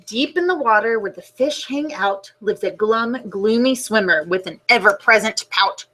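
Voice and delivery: put-on gentle storybook narration for kids; reading to children. A narrator's reading. Teacher reading the class a book, storybook voice. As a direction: read it like story time on the rug.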